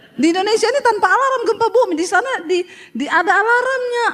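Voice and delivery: fast and high, laughing through the words. Real, not acted. Preacher joking to the congregation about earthquakes, laughing. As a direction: rush it out, laughing at the joke.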